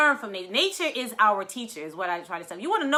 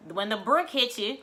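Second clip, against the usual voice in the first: ordinary talk, nothing marked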